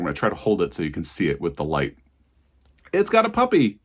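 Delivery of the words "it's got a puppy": sudden high, delighted squeal; excited squeal. Real, not acted. Showing viewers the puppy bookmark, delighted squeal. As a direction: gush over the puppy on the bookmark.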